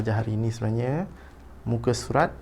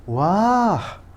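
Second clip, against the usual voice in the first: high, louder, drawn-out exclamation; expressive exclamation; 9 semitones higher, 5 dB louder than usual. Shown as a demonstration. Teacher reads Hadif's line for pupils, high expressive exclamation. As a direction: let the wow soar up in pitch. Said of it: "baca dahulu petikan dengan intonasi".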